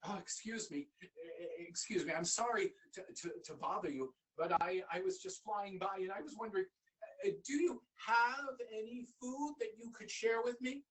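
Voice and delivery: timid little bee, stumbling over words; a shy bee nervously begging for food; stammering bee. Acted. Bee begs the young man for food, shy and stammering.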